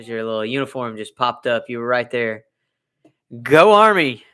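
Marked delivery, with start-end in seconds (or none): 3.4-4.2 mock cheer. Cheering uniform seen behind him.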